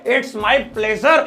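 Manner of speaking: slow, measured English reply; slow model phrase. Shown as a demonstration. Teacher introducing another answer to thanks, slow and measured. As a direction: say it slowly, word by word.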